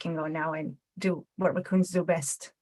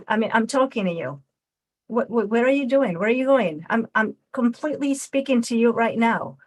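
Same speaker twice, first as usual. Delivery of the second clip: frustrated at being ignored; 2 semitones higher than usual. Shown as a demonstration. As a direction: demand attention from someone walking away. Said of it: "Now we're gonna do dismissive".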